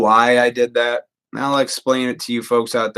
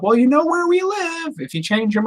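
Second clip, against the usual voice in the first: neighbor's wife. Retold or imitated. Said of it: "his wife's like".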